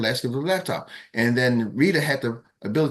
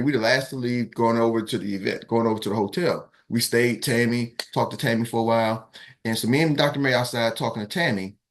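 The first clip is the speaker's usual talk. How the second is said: ordinary talk, nothing marked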